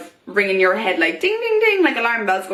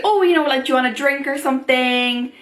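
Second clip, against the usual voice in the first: lightly imitated flirty offer, higher pitched; a hint of a chatty guy, pitched up; 4 semitones higher than usual. A guy offering her a drink, lightly imitated.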